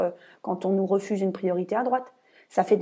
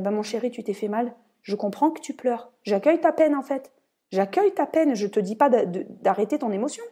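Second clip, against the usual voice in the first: tender comforting. Shown as a demonstration. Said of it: "Il faut dire".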